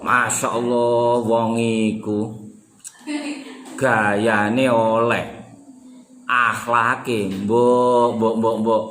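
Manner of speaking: drawn-out sarcastic jibe; mocking sarcasm. Shown as a demonstration. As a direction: sneer at a man with bad manners. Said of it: "yakni menghina".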